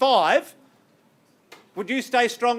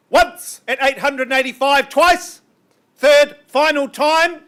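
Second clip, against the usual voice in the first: auctioneer's final call; 3 semitones higher, 5 dB louder than usual. Real, not acted. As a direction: call the going-going-gone like a real auctioneer. Auctioneer calling final bids.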